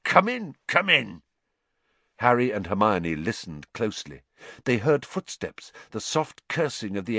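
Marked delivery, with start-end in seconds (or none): 0.0-1.2 higher, eager welcome; weak with happiness. Acted. Hagrid inviting Dumbledore in, giddy with relief. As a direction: usher him in, overcome with happiness. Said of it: "sounded weak with happiness".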